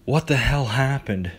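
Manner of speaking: frantic and scared; panicked. Acted. Panicked after surfacing.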